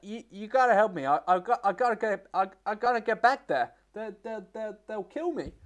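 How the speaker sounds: high, urgent, stammering plea; panicked pleading. Acted. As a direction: beg them in a panic. NPC begs for help.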